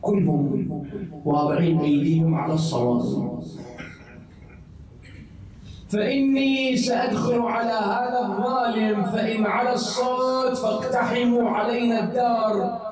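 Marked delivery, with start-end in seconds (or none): 5.9-12.8 commanding shout. Retold or imitated. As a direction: call out the order to storm in. Hussein orders his brothers at the gate.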